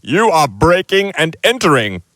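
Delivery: high, huffy protest; indignant. Acted. Uncle Vernon accusing the giant, high and huffy. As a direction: splutter the accusation.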